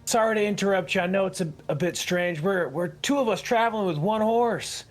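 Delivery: lightly played traveler making a polite pitch. Traveler asking a driver for a ride, politely. Player speaks as his character.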